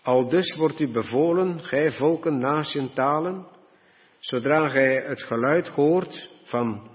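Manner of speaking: loud proclamation. Acted. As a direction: cry it out to all the nations like a herald. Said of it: "riep met luider stem".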